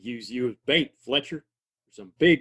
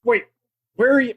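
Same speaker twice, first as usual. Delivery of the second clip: high, loud call into the dark; anxious shout after his partner; 11 semitones higher, 6 dB louder, faster than usual. Acted. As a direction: shout it out searching for him. Calling after vanished partner.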